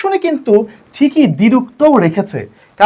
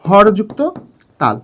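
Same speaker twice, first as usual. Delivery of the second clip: "হরযুক্ত তাল" with a pause before তাল; split into syllables; 2 semitones lower, slower than usual. Shown as a demonstration. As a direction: set তাল apart as its own syllable. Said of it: "তাহলে এর বিন্যাসটা কেমন". ("হরযুক্ত... তাল" থেমে আলাদা করে)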